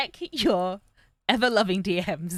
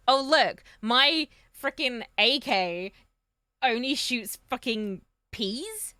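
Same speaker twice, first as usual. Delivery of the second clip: slow, louder mocking whine; 5 semitones higher, 4 dB louder, slower than usual. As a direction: sneer at how silly it sounds. Mocking unrealistic roleplay combat.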